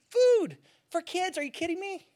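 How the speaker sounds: real passion spilling over, pitch climbing; getting carried away with real indignation; fired up. Real, not acted. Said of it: "I'm getting all fired up".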